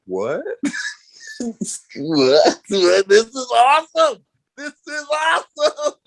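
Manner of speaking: can't believe your luck, building excitement; retold giddy glee at the blowup; giddy disbelief. His own giddy reaction retold.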